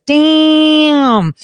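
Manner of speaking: long, high, drawn-out wow; like a catcall, held high; impressed exclamation. Retold or imitated. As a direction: stretch it out in exaggerated admiration. Acts out admiring a woman.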